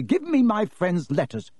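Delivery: put-on indignant boy's order; angry demand. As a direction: demand it back angrily. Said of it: "said Harry angrily".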